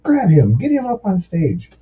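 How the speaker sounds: high, drawn-out call; imitated stage order. Singer has tech pull fan up, calling out.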